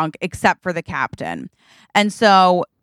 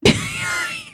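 cheering; 5 dB quieter than usual. Acted. Crowd starts cheering at announced shots.

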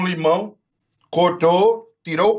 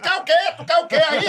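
brusque shopkeeper; 8 semitones higher than usual. Retold or imitated. Retold shopkeeper asking brusquely.

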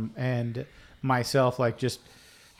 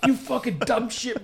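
high, slow mock yell; 9 semitones higher than usual. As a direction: imitate yelling at him, without full volume. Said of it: "I'm just yelling at".

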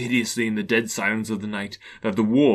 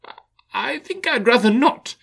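frightened stammer; 4 dB louder than usual. Acted. Scrooge frightened.

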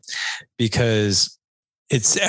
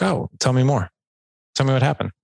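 inviting; 4 semitones higher than usual. Shown as a demonstration. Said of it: "one is a push ... the other one is an invite".

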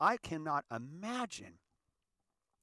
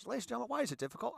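high, fast announcer plea; a light hammed-up announcer asking ladies and gentlemen; mock announcer; 8 semitones higher, much faster than usual. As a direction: address the crowd like a showman. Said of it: "I just thought".

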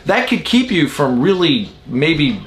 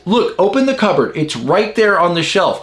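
higher, insistent pointing-out; exasperated wife; 5 semitones higher than usual. Retold or imitated. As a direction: imitate a wife insisting on the obvious. Acting wife in mug quarrel.

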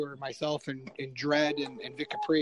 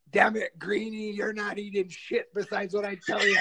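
Vince McMahon; 4 semitones higher than usual. Retold or imitated. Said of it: "talking like Vince McMahon".

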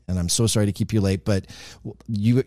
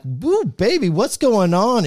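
flirty radio DJ; 10 semitones higher, slower than usual. Retold or imitated. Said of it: "and I'm like".

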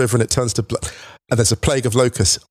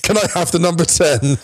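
1 timid request; 6 semitones higher than usual. Retold or imitated. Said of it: "That's a Martin Brathwaite energy".

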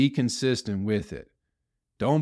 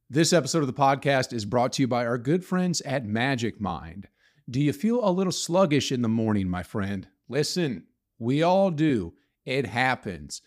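upbeat podcast ad read. Acted. Host reads a sponsor ad to listeners, upbeat. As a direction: sell it like a friendly sponsor spot.

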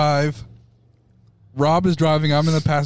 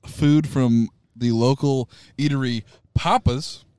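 slow lead-up, hanging pause around "Papa's"; dramatic pause; slower than usual. Real, not acted. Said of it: "what was that pause?".

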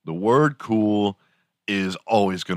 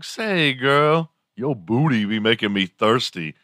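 higher-pitched hammed-up come-on; mock pickup line; 4 semitones higher than usual. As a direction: lay on a jokey pickup voice.

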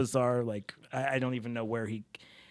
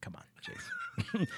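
put-on Italian accent; 4 dB quieter than usual. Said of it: "all my Italian friends".

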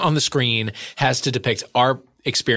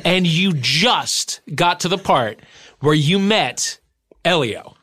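incredulous exasperation; 5 semitones higher, slower than usual. Real, not acted. Friend exasperated by late reveal.

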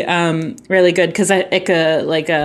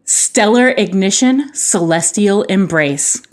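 put-on old sci-fi announcer; slower than usual. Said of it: "Are you ready for the title?".

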